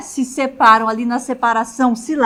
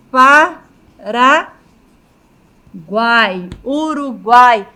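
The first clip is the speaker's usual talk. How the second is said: drawn-out example word; 5 dB louder, much slower than usual. Shown as a demonstration. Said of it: "Se eu fizer a separação silábica".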